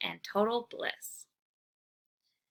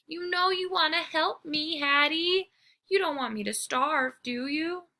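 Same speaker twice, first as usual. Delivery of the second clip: pleading; 7 semitones higher than usual. Acted. Dog pleading with Hattie.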